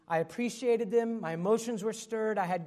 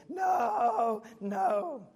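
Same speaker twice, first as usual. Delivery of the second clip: higher, louder mock toddler shout of protest; screaming child; 5 semitones higher, 4 dB louder than usual. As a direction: imitate a dragged-off toddler yelling no. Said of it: "him screaming the whole way".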